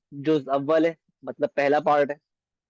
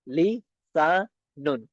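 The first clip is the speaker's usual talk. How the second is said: very slow; much slower than usual. Shown as a demonstration. Teacher slowly models the s sound in लिसानुन. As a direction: draw लिसानुन out long, with a clear hissing s. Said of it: "क्योंकि सीन है ना, तो सिटी की आवाज आएगी".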